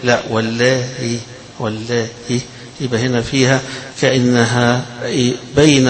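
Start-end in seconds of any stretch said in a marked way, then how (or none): 0.0-2.1 لا said plainly; والله softened, a hamza between hamza and h; softened hamza, not wallah. Shown as a demonstration. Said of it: "ما بيقولش والله".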